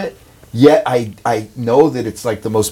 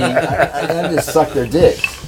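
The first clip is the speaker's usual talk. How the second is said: laughing; 4 semitones higher than usual. Real, not acted. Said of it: "joking, laughing".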